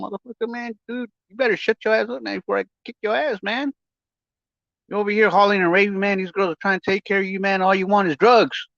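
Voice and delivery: mock shouted threat; retold angry threat. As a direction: imitate telling him off hard. Retold telling off, second time.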